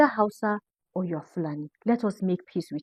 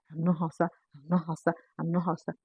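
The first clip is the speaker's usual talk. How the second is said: mock quote; 8 dB quieter than usual. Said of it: "Every day".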